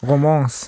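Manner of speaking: Romans with a nasal French ending, ro-mɑ̃s; French-style Romans. Shown as a demonstration. Co-host punning on the novel, French-sounding Romans. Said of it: "deswegen sage ich jetzt Romans".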